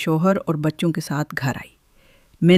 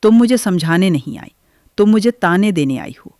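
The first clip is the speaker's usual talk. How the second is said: louder, sharp angry retort at her sister-in-law; 3 semitones higher, 5 dB louder than usual. Acted. Nazia to her sister-in-law, louder angry retort. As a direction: snap back, hurt and angry. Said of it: "Nazia نے غصے میں کہا".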